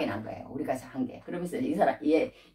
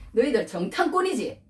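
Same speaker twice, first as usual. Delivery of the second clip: raised-pitch accusing question; pressing accusation; 6 semitones higher than usual. Acted. Brother in power accusing his brothers of spying, pressing. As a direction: press them hard for a confession. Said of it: "억지로 그냥 몰아붙이는 거야".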